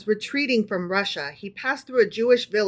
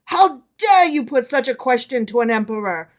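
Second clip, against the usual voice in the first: louder, outraged demand; enraged; 3 semitones higher, 5 dB louder than usual. Acted. Furious emperor scolds the tailor. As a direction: hurl it back in fury. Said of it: "beside himself with rage".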